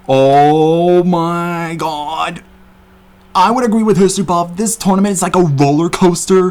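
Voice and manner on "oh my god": drawn-out amazement. Real, not acted. Overwhelmed reaction.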